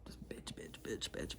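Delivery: low, muttered mock grumbling; hushed imitation of ranting; mock bitching. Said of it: "I'm just on a rant of bitching".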